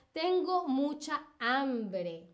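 each word set apart slowly; slow dictation. Shown as a demonstration. Teacher dictating a quiz sentence slowly to students. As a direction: read it out slowly for the class to spell. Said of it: "la siguiente pregunta y es".

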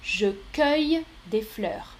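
cueille said with the "eu" of "feuille"; correct option. Shown as a demonstration. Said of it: "C'est la deuxième option qui est correcte".

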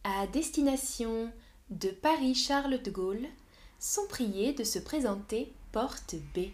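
smooth airport PA announcement. Acted. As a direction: announce the boarding call like at the gate. Stream opens with boarding call.

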